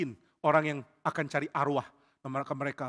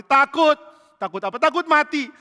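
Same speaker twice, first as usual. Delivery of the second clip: fearful; 10 semitones higher, 10 dB louder than usual. Acted. Saul confessing fear.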